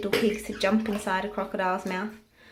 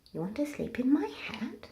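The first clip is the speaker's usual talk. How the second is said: horrified squeal; 5 semitones higher, 6 dB quieter than usual. Acted. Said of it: "squealed Hamilton, horrified".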